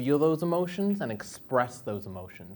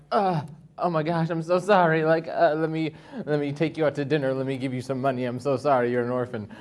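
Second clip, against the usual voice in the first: gushing sympathy; 3 semitones higher, 3 dB louder than usual. Retold or imitated. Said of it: "And they're like".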